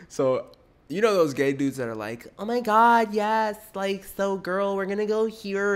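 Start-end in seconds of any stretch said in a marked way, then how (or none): 2.4-5.8 high, girly mock voice; imitating a girly gay guy; mock girly gay dude. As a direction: put on an exaggerated girly lilt, pitched way up. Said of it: "they totally talk like girls".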